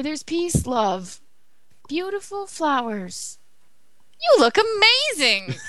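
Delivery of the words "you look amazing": mock excited. Cheesy exclamation in poem.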